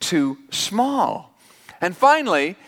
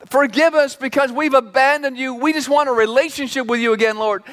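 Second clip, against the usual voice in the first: higher, earnest pleading prayer; mock pleading prayer; 5 semitones higher than usual. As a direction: plead with God like a repentant sinner. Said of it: "There's no".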